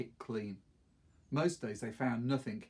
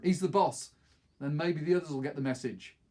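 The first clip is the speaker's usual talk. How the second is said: urgent order; 3 semitones higher, 5 dB louder than usual. Acted. Aaron continues the order.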